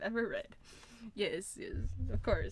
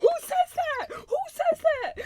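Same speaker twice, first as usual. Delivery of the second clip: very high, loud squeal amid laughter; hysterical disbelief; 10 dB louder, slower than usual. Real, not acted. Streamer cracking up at a cheesy line, high laughing shriek.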